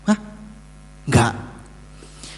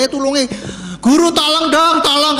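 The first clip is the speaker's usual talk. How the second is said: pleading disciple asking gently for help; polite plea for help; 8 semitones higher than usual. Retold or imitated. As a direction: ask the teacher nicely for help, pitched up.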